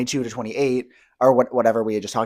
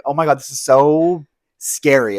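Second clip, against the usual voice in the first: mock-nervous under a group's stare; mock scared. In front of a watching group, mock nerves. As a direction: play up the fear of being watched. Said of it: "it's like".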